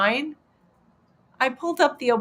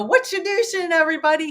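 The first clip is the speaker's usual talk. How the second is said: friend's catchphrase; 9 semitones higher, 4 dB louder, faster than usual. Retold or imitated. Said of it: "he would walk around and go".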